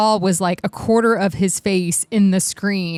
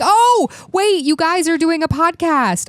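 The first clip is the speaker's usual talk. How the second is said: voicing the dog; 5 semitones higher than usual. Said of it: "he's like".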